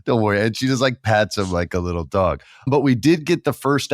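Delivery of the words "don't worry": mock soothing. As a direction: coo like soothing a pet. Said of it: "let Rhea Ripley go".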